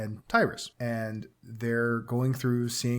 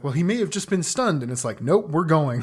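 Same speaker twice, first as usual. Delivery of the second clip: higher and louder brush-off; dismissive insistence; 4 semitones higher, 5 dB louder than usual. Retold or imitated. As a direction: push past it, loud. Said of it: "Cowan's like".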